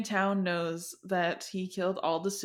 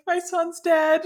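mock wailing father; 10 semitones higher, 6 dB louder, slower than usual. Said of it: "this old man just starts bawling".

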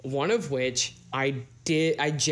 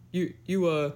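put-on Southern accent; 4 semitones higher than usual. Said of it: "my Southern man accent".

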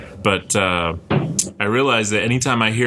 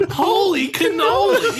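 high, slow holy cannoli; Italian caricature; slower than usual. Shown as a demonstration. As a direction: belt it like a cartoon Italian. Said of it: "I need to hear you say ravioli".

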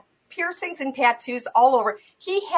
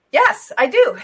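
emphatic yes; 7 semitones higher, 7 dB louder, slower than usual. Retold or imitated. Retold eager affirmative reply.

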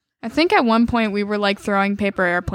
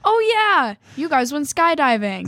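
high surprised oh, yeah; surprised realization; 6 semitones higher, slower than usual. Retold or imitated. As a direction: suddenly catch on, surprised. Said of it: "I was like".

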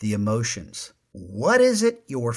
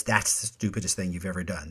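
calmly said; 7 semitones lower, 6 dB quieter, faster than usual. Shown as a demonstration. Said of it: "nobody calmly says".

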